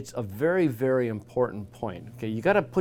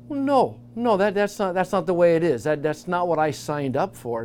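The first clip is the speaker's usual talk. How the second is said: higher, louder protest of no, no; disciples protesting; 5 semitones higher, 4 dB louder than usual. Retold or imitated. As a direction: push back in disbelief, voice jumping up. Disciples protesting Jesus' death prediction.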